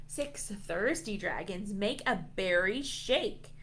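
usual speaking voice

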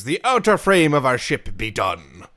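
proud pirate boast. Pretend. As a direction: announce it like a ship's captain. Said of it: "I'm not sorry for the pirate voice".

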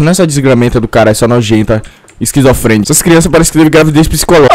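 normal talking voice

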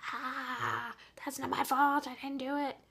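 hammed-up exasperated wail; inner protest. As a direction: cry out the protest you swallowed. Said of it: "in your mind, you're just like".

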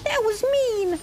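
high pitched mock hurt whine; high whiny complaint. Real, not acted. Hit by boss, whining.

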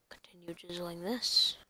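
breathy whisper under the breath; whispered aside. Real, not acted. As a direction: whisper it to yourself. Whispering while working.

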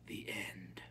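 low, soft, final; hushed, unmoved ending; calm finality. A narrator's reading. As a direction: close the matter quietly. Grandmother repeats it calmly.

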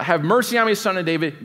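mild mock cry for mercy; pleading cry. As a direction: call out desperately to Jesus. Blind men crying out.

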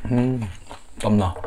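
talking while chewing food; words muffled by food; mouth full, chewing. Real, not acted. Seen 1: Ate at -12 to -9; lips closed, working mouth through the words.

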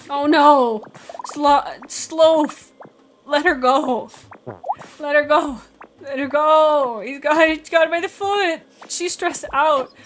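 loud, urgent yells at the game; alarmed shouting. Real, not acted. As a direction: shout to save her. Pet grabbed, player yelling.

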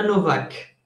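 "Novak" with a clear v sound, as in Polish. Shown as a demonstration. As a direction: pronounce the middle of "Novak" as V, not W. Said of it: "la W suena como una V". ("Novak" con V, a la manera polaca)

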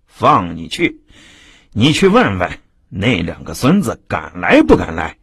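smash the table and rant; hammed-up rage of a tyrant; furious bully. Tao San slams table, rages.

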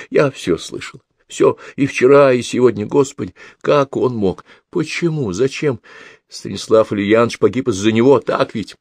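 grieving daughter pleading to understand; distraught young woman. Acted.

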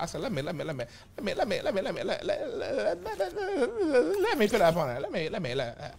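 giggling through the words; laughing. Real, not acted. Streamer laughs while stuttering with food. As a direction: break into laughs mid-word.

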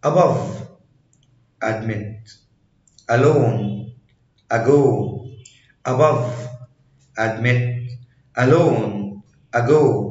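"Above", "Alone", "ago" opening on a short Arabic a; A like a fatha. Shown as a demonstration. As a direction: say admit with a short, plain a at the front. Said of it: "بيتنطق زي الفتحة".

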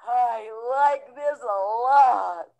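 smiling. Acted. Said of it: "He said with a smile".

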